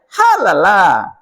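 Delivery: put-on Padang accent. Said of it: "Ini jadi orang Padang jadinya".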